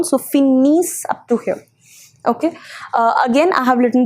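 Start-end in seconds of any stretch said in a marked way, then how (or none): 0.2-1.0 "finis" said fee-neess, ending on s; "finis" with a clear final s and nothing after; silent ENT ending. Shown as a demonstration. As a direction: stop "finis" on a sounded s. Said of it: "a pronunciation of its own".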